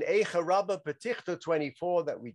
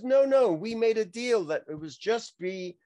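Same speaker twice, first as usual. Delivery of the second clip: protesting Loretta; 4 semitones higher than usual. Retold or imitated. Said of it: "And she says".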